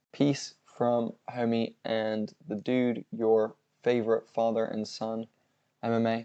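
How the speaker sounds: slow, soft monotone robot voice. Acted. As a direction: drone it out slowly like a robot. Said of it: "Stop talking like a robot".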